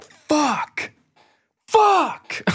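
high, loud shrieked swear; exasperated yell. Retold or imitated. Seeing the genre tag, he shrieks in mock frustration. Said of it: "I'm just like".

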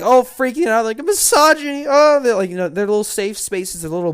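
high, loud shrieking mock panic; high squealing parody of panicked liberals; mocking hysterical liberals.

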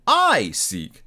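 indignant otherworldly spirit exclaiming; echoing ethereal energy being. Acted. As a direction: cry out as an offended ghost. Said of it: "exclaimed the spirit".

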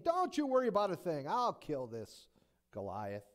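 loud, high and confident, slowing on the end; bold statement. Retold or imitated. Young David boasting to King Saul, loud and bold. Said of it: "makes a bold statement to the king".

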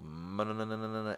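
high, monotone "na-na-na" stutter; imitated babbling noise. The speaker reading Caddyshack to the kids, babbling imitation.

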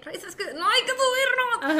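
pleading through laughter, voice climbing high; laughing plea. Retold or imitated. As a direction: laugh while begging her to ride. Convincing a scared friend, laughing. (suplicando entre risas)

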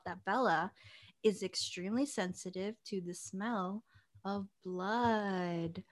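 whispered, like telling a ghost story; spooky whisper. Acted. Host whispers the spooky twist to her cohost. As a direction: drop to a hushed creepy whisper. Spooky reveal of blood sensitivity.

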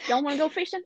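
warm-up line in a Southern accent. Shown as a demonstration. Finding the voice before the quote, Southern accent. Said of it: "Doing a Southern accent".

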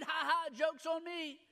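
slow, put-on ha ha; forced self-mockery. Boy beating classmates to the punch, mock joking. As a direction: fake laughing along at your own expense.

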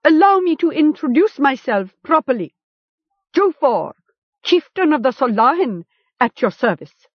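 high-pitched, grandly polite introduction; mock courtesy. A narrator's reading. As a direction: introduce yourself with false courtesy. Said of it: "bowed in mock courtesy".

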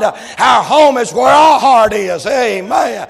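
loud, rising preacher cadence with shouted peaks; fiery preaching. Acted. Preacher rousing the church about a Redeemer, fiery preaching. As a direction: preach it hard, punching the climaxes.

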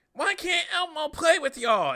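high, loud squeaky puppet voice; Elmo voice. Retold or imitated. Comedian imitating Elmo asking to play, high and pleading. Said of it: "Elmo was like".

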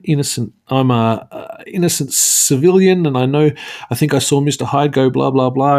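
lightly imitated innocent bystander; mock innocent caller. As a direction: feign innocence on a call to police. Villain poses as innocent police caller.

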